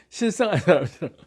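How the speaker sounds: 실성한 사람처럼 said through a giggle; amused, giggling delivery; laughing it out. Shown as a demonstration.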